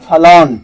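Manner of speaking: फलॉन as "fa-lawn", no r sound; correct pronunciation. Shown as a demonstration. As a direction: model फलॉन with a falling tune. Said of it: "तो फलॉन correct sound है".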